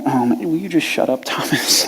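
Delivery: half-whispered plea to drop it; shushing the angry friend under breath; hushed aside. Retold or imitated. Disciples quietly hushing Thomas, a soft exasperated whisper.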